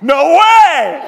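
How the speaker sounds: high, loud laughing no way; delighted laughing cry; laughing disbelief. Retold or imitated. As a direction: laugh out your amazement. Author reacts laughing.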